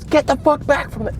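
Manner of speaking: very high, loud mock guard shout; guard's furious yell. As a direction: scream the order like a hammed-up guard. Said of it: "he goes".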